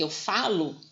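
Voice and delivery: "falo" with weight on FA; teacher showing the stressed A in "falo"; stress on first syllable. Shown as a demonstration. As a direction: lean on the FA of "falo". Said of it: "a vogal tônica vai ficar dentro".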